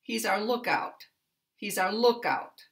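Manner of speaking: "lookout" stressed on "look", falling away on "out"; compound noun stress. Shown as a demonstration. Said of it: "a compound noun".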